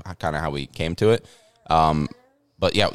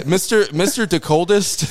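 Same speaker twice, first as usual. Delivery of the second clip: mock grand title; 12 semitones higher, 3 dB louder than usual.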